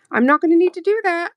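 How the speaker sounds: high, quick mocking quote; imitating sister. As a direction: toss it off like the sister. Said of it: "And she's like".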